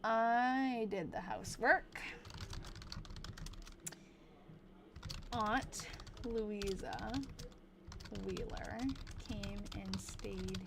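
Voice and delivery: put-on old-timey voice. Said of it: "in a crazy fake, um, old-timey voice".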